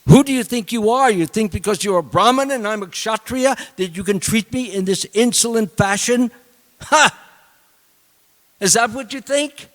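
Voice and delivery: high, loud indignant tirade with a scornful Ha; angry outburst. Retold or imitated. Insulted king shouts at the silent sage, furious. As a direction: rage at the insult to your rank. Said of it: "he got angry".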